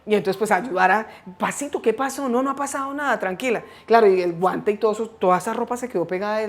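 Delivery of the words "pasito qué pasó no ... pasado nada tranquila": higher-pitched, gentle calming voice; retold soothing. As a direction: act out hushing and reassuring someone panicked. Retells calming the panicked girl.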